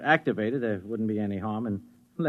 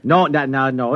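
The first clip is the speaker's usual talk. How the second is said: emphatic refusal; 3 semitones higher, 7 dB louder than usual. Acted. Husband refuses wife.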